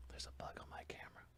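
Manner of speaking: hushed whisper to himself; muttered whisper about a bug; whispered aside. Real, not acted. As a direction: whisper it off-mic, half to yourself.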